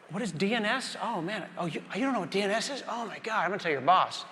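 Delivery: mock a smug senior dev scolding a junior; mocking coworker. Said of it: "they're gonna write you up".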